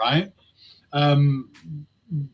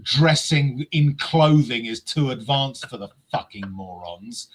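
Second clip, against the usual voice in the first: ranting. Real, not acted. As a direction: vent like an angry fan. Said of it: "I'm just gonna rant a little bit".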